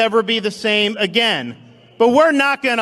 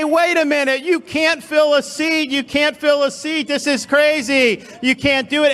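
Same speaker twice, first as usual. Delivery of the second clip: whining; 4 semitones higher than usual. Retold or imitated. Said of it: "their whining".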